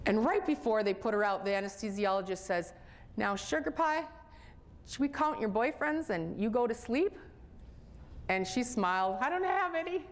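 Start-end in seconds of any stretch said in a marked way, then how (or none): 3.2-7.2 higher, sweet teasing voice; coaxing anesthesiologist. Retold or imitated. Anesthesiologist sweet-talking the girl before surgery. 9.2-10.1 put-on higher, childlike answer; little girl's reply. Ten-year-old girl answering the anesthesiologist, childlike high voice.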